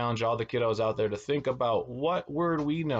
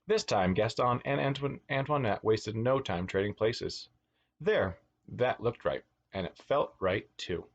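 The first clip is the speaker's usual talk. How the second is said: put-on lilting read-aloud for children; animated storyteller; picture-book narration. A narrator's reading. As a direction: read a storybook to little kids, stressing key words.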